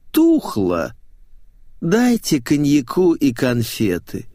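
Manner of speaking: slow, languid, bored drawl; whining starlet. A narrator's reading. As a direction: whine for treats, dragging the words. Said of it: "заныла мамзель".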